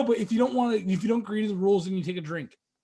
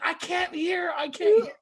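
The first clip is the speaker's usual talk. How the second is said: imitated dazed girl; 9 semitones higher, 3 dB louder, slower than usual. Girl's hearing gone after slap.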